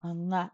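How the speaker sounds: "Unga" as uh sliding into nga; uh before NG. Shown as a demonstration. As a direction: say "Unga" with a short uh, then ng. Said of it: "put a little bit of an uh".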